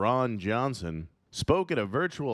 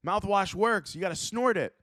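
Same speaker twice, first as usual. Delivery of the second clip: much higher, insistent conspiracy bro; high anti-vaxxer voice; 11 semitones higher than usual. Pretend. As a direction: push your crazy tip with a high voice. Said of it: "They're like".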